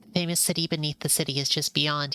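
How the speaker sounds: hushed unvoiced whisper, reading the place name; whispered caption. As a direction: whisper it like a secret arrival.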